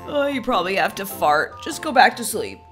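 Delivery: sleepy dismissal. Acted. Sleepy husband dismisses sick wife.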